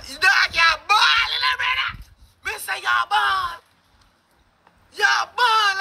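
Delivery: loud, hammed-up fake sobbing; mock crying. Teasing the guy that he is crying, loud mock sobs. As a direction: wail it like a fake crybaby.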